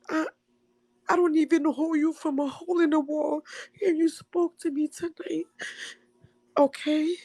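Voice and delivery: high, halting voice breaking into tears; real crying. Real, not acted. Caller telling Ray they spoke to them, breaking down. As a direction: struggle to finish through sobs.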